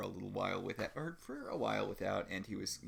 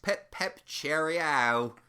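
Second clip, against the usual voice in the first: a hammed-up, much higher British accent; mock British accent; 7 semitones higher, 8 dB louder, much slower than usual. Mocking the actor's bad British accent in a high British voice. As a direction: do a silly toff British accent. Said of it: "his terrible British accent".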